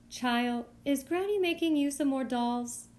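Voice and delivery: lightly lilting kindly tailor lady, pitch a little up; sing-song voice. Acted. Tailor lady asks the girl about rags, lightly sing-song. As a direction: let the question bounce up and down like a little tune. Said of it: "she asks in her sing-song kind of voice".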